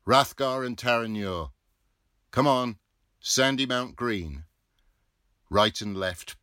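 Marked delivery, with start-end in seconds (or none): 0.0-1.5 loud, higher timekeeper's call; hoarse timekeeper hollering; bawled. Acted. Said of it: "bawled them off". 2.3-4.5 loud, higher call of the stop; bawled. Acted. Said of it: "bawled them off".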